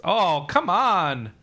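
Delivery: slow, drawn-out loud whine; loud protest. Real, not acted. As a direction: plead loudly, dragging it out. Friends refuse to play.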